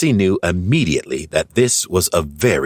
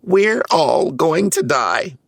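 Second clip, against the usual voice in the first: much higher, slow storybook panic; panicked cry; 11 semitones higher, slower than usual. A narrator's reading. Brainy panics about never getting home, slow high wail. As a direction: drag out the doom like a terrified little Smurf. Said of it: "he cried".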